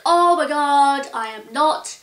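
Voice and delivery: mock scream of pent-up annoyance; inner scream. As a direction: let out the frustration she holds in inside. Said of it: "like, screaming".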